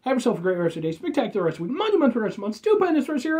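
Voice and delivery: building, ever grander sign-off; escalating hype outro; sign-off flourish. Acted. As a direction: ramp each adjective up like a showman. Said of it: "Five things before I get out of here".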